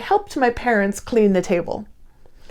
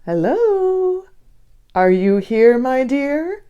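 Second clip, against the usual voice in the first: sweet and kind; slower than usual. Acted. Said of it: "I heard a sweet and kind voice".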